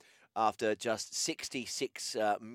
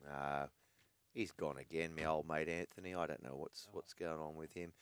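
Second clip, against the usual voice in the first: much softer, lower, half to himself; quiet aside; 8 semitones lower, 13 dB quieter than usual. Real, not acted. Radio host to listeners after the caller drops, quiet mutter. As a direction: drop the voice and mutter it off-mic.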